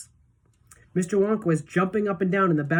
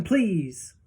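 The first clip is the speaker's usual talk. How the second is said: whispered please. A narrator's reading. Polite after the shout.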